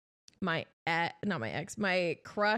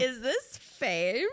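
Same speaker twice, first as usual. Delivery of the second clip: laughing; 4 semitones higher, much slower than usual. Real, not acted. Laughing disbelief at being heard.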